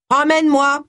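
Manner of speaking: high, raspy creature command; raspy toy dog. A narrator's reading. Toy dog ordering a walk when pulled, raspy voice. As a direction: rasp out an order like a talking toy. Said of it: "il ordonna d'une voix râpeuse".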